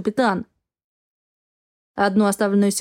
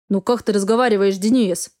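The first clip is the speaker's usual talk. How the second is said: annoyed. Acted. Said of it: "С досадой".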